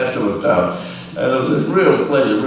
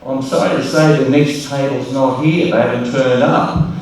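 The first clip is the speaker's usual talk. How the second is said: mock sorry MC; 3 semitones higher than usual. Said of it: "he changed the expression and said".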